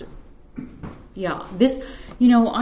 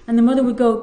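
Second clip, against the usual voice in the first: steady reading voice for a story; story narration. A narrator's reading. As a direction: read the tale to the room, unhurried. Reads her story aloud.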